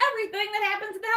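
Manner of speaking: high, fast fed-up outburst; exasperated rant. Real, not acted. Mocking the book's pacing, high fast exasperated rant. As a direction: rattle it off, exasperated.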